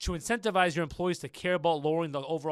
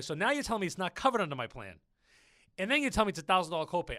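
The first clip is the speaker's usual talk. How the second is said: indignant rush; faster than usual. Retold or imitated. Arguing with billing woman.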